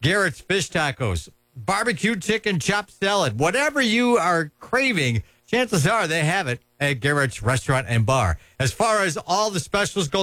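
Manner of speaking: upbeat live radio ad read. Acted. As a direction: sell it like a radio spot.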